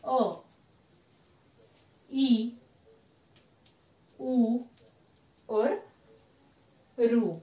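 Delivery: each short vowel said alone, with long pauses between; short vowels demo. Shown as a demonstration. Teacher sounding out short vowels for the students, slow and separate. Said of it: "जैसे कि वो स्वर कौन से हैं?".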